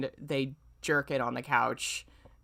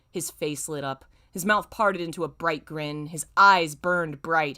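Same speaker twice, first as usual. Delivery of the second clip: story reading. Acted. Streamer reading fanfic to chat in a plain narrator voice. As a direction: evenly read fanfic narration. Reads fanfic passage aloud.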